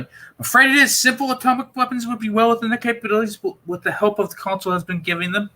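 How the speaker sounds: a lightly voiced Doctor breaking bad news. Doctor warning Perry about the Romans, grave.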